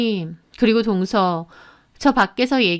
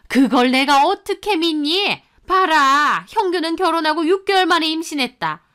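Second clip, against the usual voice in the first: mother-in-law, pitched higher, lecturing and blaming; scolding mother-in-law; 4 semitones higher than usual. Acted. Mother-in-law blaming her daughter-in-law for no child, scolding. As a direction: hammer home the blame, righteous older mother.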